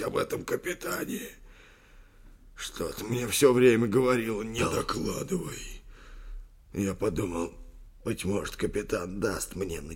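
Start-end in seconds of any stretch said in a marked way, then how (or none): 4.4-5.8 slow, eerie whisper; hushed, drawn-out warning; inner warning. A narrator's reading. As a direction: whisper it like a nagging conscience. Inner voice warning the old man.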